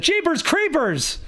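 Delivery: high, stretched-out amazement; astonished exclamation. A narrator's reading. Teacher stunned by the nurse, high slow exclamation. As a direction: draw it out high in disbelief.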